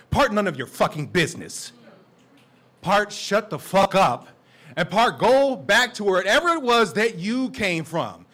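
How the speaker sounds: loud, slow, defiant lines; angry climax. Acted. Poet lashing out at nosy strangers, loud and slow. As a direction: spit each part at them.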